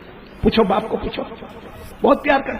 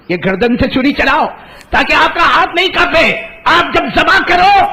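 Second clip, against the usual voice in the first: son pleading; 9 semitones higher, 4 dB louder than usual. Acted. Son pleads rising to loud.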